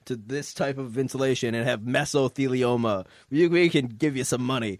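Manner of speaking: slow, lightly mocked injury-lawyer commercial; a hint of a TV legal ad pitch. Friend imitating mesothelioma commercials, lightly hammed. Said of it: "those commercials where they're like".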